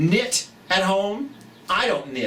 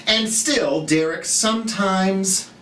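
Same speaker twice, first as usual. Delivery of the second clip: storybook read-aloud for little ones; reading to children. Acted. Reads picture book aloud.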